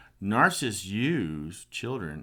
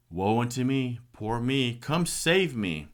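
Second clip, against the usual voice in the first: higher, louder mock self-pity, last words slow; mocking whine; 5 semitones higher, 5 dB louder, slower than usual. Mocking the dating partners' victim posts, whiny and slow. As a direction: ham up the poor-me plea.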